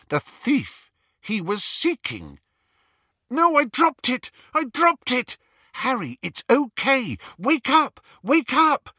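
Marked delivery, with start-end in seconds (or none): 3.3-8.9 high, loud urgent calling; urgent reassurance. Acted. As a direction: shout to wake a friend from a nightmare. Friend calls him back from nightmare.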